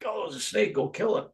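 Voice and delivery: alarmed villager. Retold or imitated. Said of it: "they wanna".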